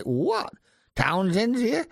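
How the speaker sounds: a light mock double take; mock surprise. Mixer hearing Townsend came, in mock surprise. Retold surprise at a famous guest.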